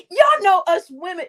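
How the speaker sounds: loud, wheezing through a laughing fit; can barely get the words out for laughing. Real, not acted. Telling viewers about women, laughing hard. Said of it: "when we get to laughing too much".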